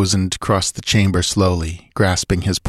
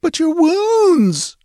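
a drawn-out wail pitched very high, slow; 3 dB louder, much slower than usual. Acted. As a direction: cry it out slowly, way up high. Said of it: "she wailed".

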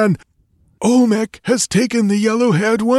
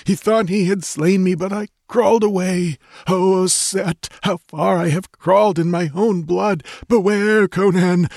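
high, gurgling voice of a dying man; urgent warning with failing breath; 11 semitones higher than usual. Acted. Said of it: "gurgled Tecuhtli".

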